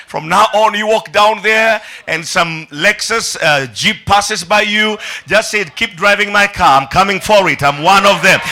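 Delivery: loud, rousing sermon delivery; full-force preaching. Acted. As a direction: preach it out to the whole congregation.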